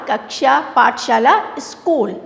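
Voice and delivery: normal talking voice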